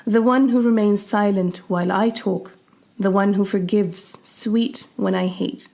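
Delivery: slow, measured poetry reading; poem reading. Acted. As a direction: read it like a poem. Reads a poem aloud.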